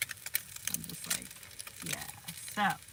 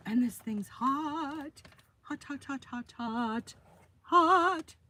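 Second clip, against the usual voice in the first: hot hot hot; 7 semitones higher, 3 dB louder, slower than usual. Real, not acted. Touching a hot pan.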